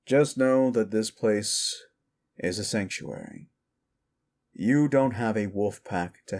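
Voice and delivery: slow, deliberate bartender advice; bartender giving counsel. Acted. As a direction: spell it out for a patron with weight. Bartender explains the sanctuary.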